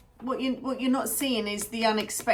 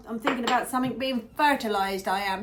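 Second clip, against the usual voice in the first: lightly put-on farmer's accent; a touch of country farmer accent. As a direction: slip into a mock farmer's accent. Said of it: "I come out with a farmer's accent then".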